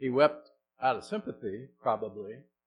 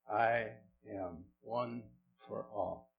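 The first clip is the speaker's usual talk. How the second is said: drawn-out solemn quote; slow down, let it land; solemn, slow words of Jesus; 4 dB quieter, much slower than usual. Real, not acted. Quoting Jesus slowly.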